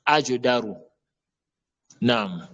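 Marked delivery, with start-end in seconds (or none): 0.0-0.8 Ajdaru with a short echo after the J; bouncing qalqala jim. Shown as a demonstration. Teacher naming the qalqala letter, jim bounced. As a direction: release the j of Ajdaru before daru. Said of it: "Jim, lettre col colon".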